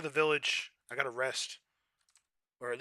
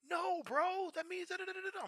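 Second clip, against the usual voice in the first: high, softer mocking friend voice; imitating a friend; 5 dB quieter than usual. Imitating a friend explaining slang, high and mocking. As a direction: talk down like a know-it-all pal. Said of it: "they're like".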